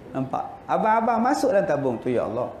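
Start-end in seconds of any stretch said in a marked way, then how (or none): 2.1-2.5 much lower, softer husband praying, half laughing; a hint of a husband grumbling to God; mock pleading prayer. (doa suami yang rendah, separuh ketawa)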